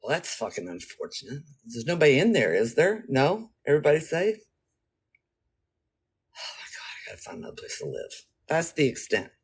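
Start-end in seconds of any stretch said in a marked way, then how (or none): 0.0-8.3 deadpan indifference. Retold or imitated. Calm about her house burning, deadpan. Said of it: "I'm like".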